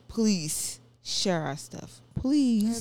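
slow, drawn-out plea; mock begging. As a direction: plead playfully, stretching out the please. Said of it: "okay, let's beg you".

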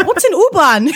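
giggling through a baffled question; laughing. Real, not acted. Friend retelling getting lost in Berlin, laughing. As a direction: laugh while asking, high up.

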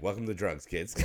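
chuckling through the words; laughing. Retold or imitated. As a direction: say it while laughing. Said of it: "I was like".

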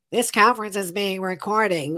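stiff, even robotic announcement; computer voice. Retold or imitated. Mocking the Zoom recording announcement she wants to replace. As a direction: mimic the Zoom recording notice like a machine. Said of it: "a computer voice".

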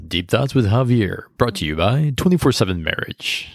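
smooth radio announcer read. Acted. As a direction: sign off like a show announcer. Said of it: "People know you have an announcer voice now".

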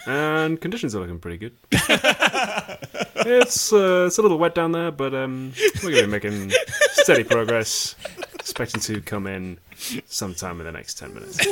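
smooth airline captain; pilot announcement. Pretend.

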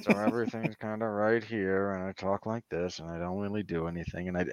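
low, flat, near-murmured monotone; deadpan the lines quietly, barely moving; Mister Robot voice. Retold or imitated. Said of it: "half of his Mister Robot voice".

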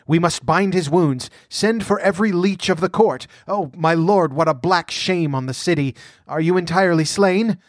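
high-pitched, fussing alarm; agitated old courtier, crying out; flustered cry. A narrator's reading. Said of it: "cried Publius".

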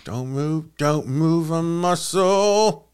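slow, drawn-out mock Cockney impersonation; Dick Van Dyke. Host showing off his Mary Poppins act, Dick Van Dyke impersonation. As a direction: stretch out a hammed-up Cockney chimney sweep. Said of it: "Mary Poppins Dick Van Dyke impersonation".

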